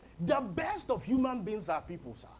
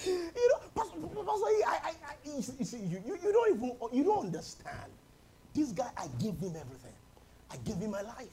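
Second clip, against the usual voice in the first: upset church member; 4 semitones higher than usual. Retold or imitated. Congregant complaining to pastor.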